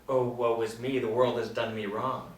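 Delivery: mock self-pity. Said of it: "but to".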